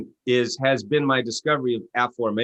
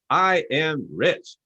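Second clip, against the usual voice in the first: audience repeating; 5 semitones higher, much slower than usual. Retold or imitated. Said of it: "And everybody goes".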